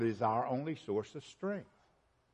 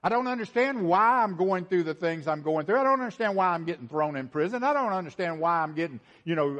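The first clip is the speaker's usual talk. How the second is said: lightly acted apostle, pitched up; Paul's bewildered complaint; 5 semitones higher, 3 dB louder than usual. Preacher voicing Paul's hardships, mildly exasperated and raised. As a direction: pile up each baffled complaint. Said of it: "What's he saying?".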